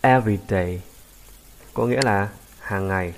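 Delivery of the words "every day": EVery day, emphasis on the first syllable; corrected model "every day", front-stressed. Shown as a demonstration. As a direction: lean into the opening E of "every day". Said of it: "Mình đọc là".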